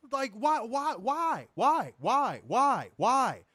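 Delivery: high, repeated exasperated pleading; incredulous, fed-up wail. Real, not acted. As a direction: demand an answer, hammering each word. Exasperated rant about promo voices.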